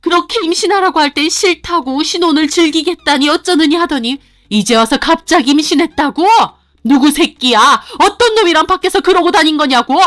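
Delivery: high, loud, angry tirade; furious accusation. Acted. Mother-in-law accusing daughter-in-law of cheating, furious. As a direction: accuse her with fury.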